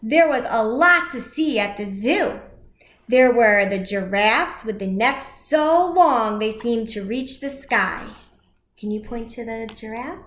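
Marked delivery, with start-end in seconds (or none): 0.0-8.1 put-on lively read-aloud for children; animated picture-book reading; story narration.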